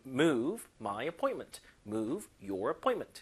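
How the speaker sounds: slow, stressing move; slow model reading. Shown as a demonstration. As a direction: read it out slowly for students. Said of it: "들어볼게요".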